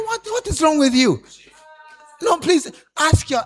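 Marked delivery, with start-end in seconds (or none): 0.0-1.2 scolding neighbor. Shown as a demonstration. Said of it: "Ask him".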